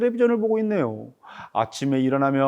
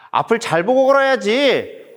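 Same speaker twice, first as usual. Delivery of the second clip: higher-pitched scolding call; parent's warning; 6 semitones higher, 3 dB louder than usual. Acted. Parent warning a child who walks while gaming, scolding voice. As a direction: read it as a parent telling off a child.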